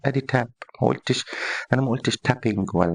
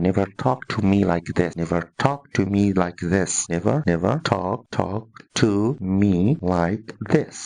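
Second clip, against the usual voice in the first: mild stern father; 3 semitones lower, much slower than usual. Retold or imitated. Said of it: "بابا من الباباهات اللي بيربي تربية حديثة".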